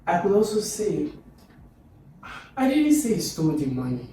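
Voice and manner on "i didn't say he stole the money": opening I DIDN'T lifted, falling to the end; hint at another culprit through stress; implying somebody else. Shown as a demonstration. Teacher implying somebody else did it, pointed stress. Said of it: "implying that maybe somebody else did".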